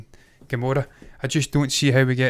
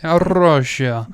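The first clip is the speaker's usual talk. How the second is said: put-on botched Russian accent, rolled and louder; attempted Russian accent; 3 semitones higher, 5 dB louder than usual. Co-host mimics the actress's accent, badly attempted Russian. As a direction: try a Russian accent that slips. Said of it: "That was fucking almost Rastafarian".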